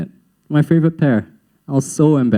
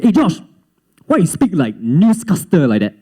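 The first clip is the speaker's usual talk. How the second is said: imitated Singlish classmate; 3 semitones higher than usual. Classmate questioning his accent, in blunt Singlish. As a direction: put on a schoolkid's Singlish challenge.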